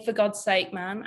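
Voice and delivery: a tentative go at Welsh; attempted Welsh accent. Shown as a demonstration. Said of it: "Can I do a good Welsh accent?".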